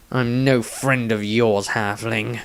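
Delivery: mildly menacing hiss of contempt. Acted. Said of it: "Dieter looked menacingly".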